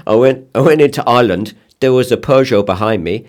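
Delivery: put-on a clumsy Scandinavian accent, building to a laugh; Toppy, Scandinavian accent. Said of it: "it's a really shit accent".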